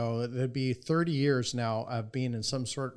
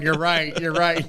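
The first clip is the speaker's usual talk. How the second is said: laughing agreement; 5 semitones higher, 10 dB louder, slower than usual. Retold or imitated. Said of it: "And they're all laughing".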